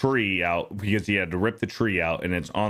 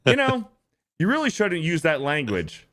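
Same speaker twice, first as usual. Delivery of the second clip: scolding Clark; 5 semitones higher than usual. Retold or imitated. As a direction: scold like a fussy dad, pitched high. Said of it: "And he's like".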